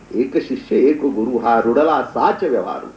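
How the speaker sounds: slow, low, measured recitation; recited rule. Real, not acted. Preacher quotes the sect's rule of succession, reciting. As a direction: intone the maxim with drawn-out words.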